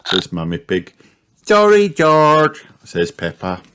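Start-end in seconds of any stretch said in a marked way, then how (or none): 1.5-2.6 put-on high, slow, louder child voice; apologetic piglet. A narrator's reading. Peppa apologising to crying George, sorry. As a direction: draw out a high little-girl apology.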